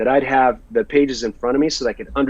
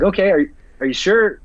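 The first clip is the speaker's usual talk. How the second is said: startled, disbelieving question; surprised; 6 semitones higher, 4 dB louder than usual. Retold or imitated. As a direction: caught off guard, asking twice. Told to drop the accent.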